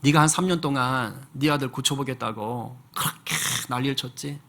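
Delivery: a hint of God rebuking him gently; God speaking. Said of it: "하나님께서 그렇게 말씀을 하시더래요".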